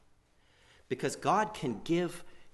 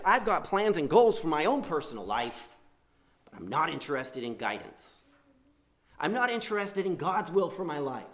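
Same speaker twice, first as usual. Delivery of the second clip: self-willed rebel; 2 semitones higher than usual. Retold or imitated. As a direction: brush off God's guidance. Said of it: "More like".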